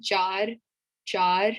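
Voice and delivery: "jar" with an open ah and a rolled r; "jar" with a Spanish-style r; Urdu number four. Shown as a demonstration. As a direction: model "jar", the r rolled at the end. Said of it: "the r sound the way that I say it".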